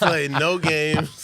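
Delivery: dramatic movie voice. Pretend. Dramatic mock movie line.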